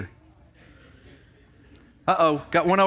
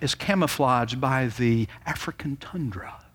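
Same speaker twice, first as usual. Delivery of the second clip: golf commentator. Retold or imitated. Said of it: "like, a golf commentator's voice".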